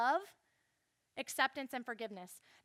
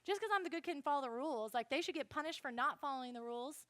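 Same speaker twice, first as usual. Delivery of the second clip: bitter grumble; faster than usual. Retold or imitated. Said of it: "I started getting bitter".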